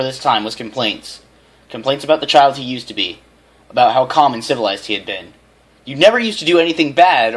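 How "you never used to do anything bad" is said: high, loud reproach; mother scolding son. A narrator's reading. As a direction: scold him.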